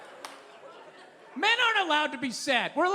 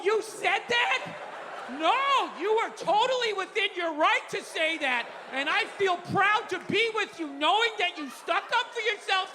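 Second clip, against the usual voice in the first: lightly higher, slow, hammed-up gushing; gushing friend; 6 semitones higher than usual. Mocking how wife listens to a friend, lightly higher and gushing. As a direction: play a lightly sketched gushing supportive listener.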